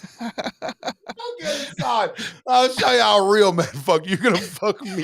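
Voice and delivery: high, drawn-out squeaky mimic of the son; mock son's voice.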